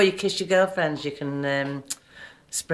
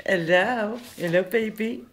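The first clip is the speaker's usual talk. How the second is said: talking to the dog; 3 dB quieter, slower than usual. Real, not acted. Greeting the dog.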